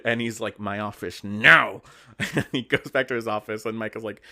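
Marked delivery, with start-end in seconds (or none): 0.6-1.8 slow, louder clipped command; livid order. Retold or imitated. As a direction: bark it out slowly, furious boss. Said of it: "He's livid".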